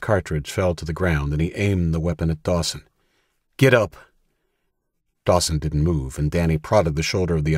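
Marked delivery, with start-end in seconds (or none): 3.6-4.0 loud, higher bark of a command; shouted order. Acted. Danny orders the man on the ground to rise, loud shout. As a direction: shout it down the barrel at him.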